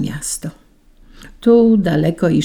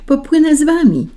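high, eager raindrop's call; raised storybook cry to join in; 10 semitones higher, 4 dB louder than usual. A narrator's reading. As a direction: call after the others in a high voice. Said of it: "zawołała deszczowa kropelka".

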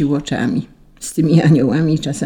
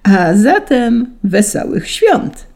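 slow, high, festive greeting; broad smile; 6 semitones higher, 4 dB louder, slower than usual. A narrator's reading. Saint Peter greeting the angels, broad smiling proclamation. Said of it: "uśmiechnął się szeroko".

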